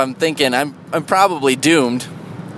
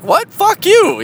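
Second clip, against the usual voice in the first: high, loud indignant "Fuck you"; hammed-up outraged brush-off; mock angry retort; 5 dB louder, slower than usual. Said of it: "the only appropriate reactions are to be like".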